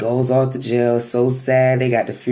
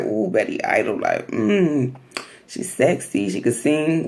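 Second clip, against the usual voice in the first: softer, savoring each word; mock the lust in her voice; lusty purring; 4 dB quieter than usual. Mama D lusting over Betty Idol, softly purring. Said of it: "is so lusty".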